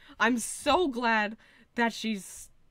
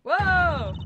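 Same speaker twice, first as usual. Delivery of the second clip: loud, much higher whoa of awe; amazed whoa; 10 semitones higher, 9 dB louder than usual. Real, not acted. Streamer watching the witness transform, loud amazed whoa. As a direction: blurt it out, stunned and delighted.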